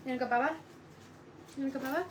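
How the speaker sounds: enticing pet talk. Real, not acted. Teasing dog with an outing.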